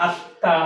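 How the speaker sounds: আত্মা as "at-ta", the t doubled and m silent; doubled consonant. Shown as a demonstration. Teacher recalling the example given earlier, doubled consonant. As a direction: hold a double t in আত্মা, dropping the m. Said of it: "দ্বিত্ব উচ্চারিত হয় দুইবার".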